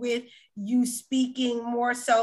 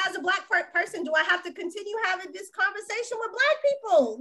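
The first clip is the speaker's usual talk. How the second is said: worn-out exasperation, pitch climbing higher; exasperated; 5 semitones higher than usual. Real, not acted. Tired of having this conversation with Black people, exasperated. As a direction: plead in real exasperation at having to explain. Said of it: "it is exhausting".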